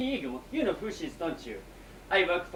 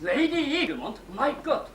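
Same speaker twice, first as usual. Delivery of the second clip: shocked alarm; 5 semitones higher, 5 dB louder than usual. Acted. Shock at hearing the visitor's name.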